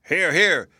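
high, loud chorus of agreement; pie pans cheering. A narrator's reading. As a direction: cheer along with the crowd. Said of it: "cried the shiny pie pans".

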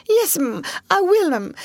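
high, stammering, frightened; trembling. A narrator's reading. Scared maid obeying her mistress, trembling. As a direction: stammer it with a shaking voice.

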